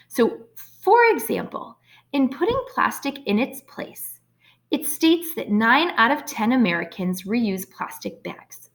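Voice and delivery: slow read-aloud, pausing at the comma; reading slowly with pauses. Shown as a demonstration. Teacher reading an essay aloud to show the pause, slow and deliberate. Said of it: "I heard my voice pause there".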